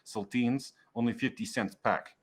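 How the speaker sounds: lightly voiced foreign-sounding server; a hint of a character voice, hesitant advice; cautioning server. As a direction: gently warn the customer, slightly in character. GM plays the clipped-grammar server.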